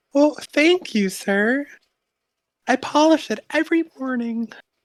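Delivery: very high, shy, meek, timid little voice. The game narrator voices an armored character answering a compliment, in a timid voice. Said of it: "you hear a timid voice say".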